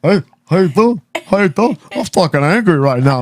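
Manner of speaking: high, goofy friendly greeting; friendly dog voice. Retold or imitated. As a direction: play the sweet German shepherd.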